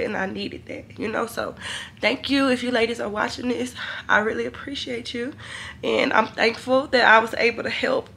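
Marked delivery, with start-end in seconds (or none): 0.0-5.3 softer, close to tears; tearful thanks. Real, not acted. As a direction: thank the ladies softly, barely holding it together. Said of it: "I'm emotional".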